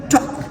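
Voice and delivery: "Talk" ending on a K without a puff; unaspirated final K. Shown as a demonstration. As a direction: close "Talk" on a barely released K. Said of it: "Do you feel K sound?".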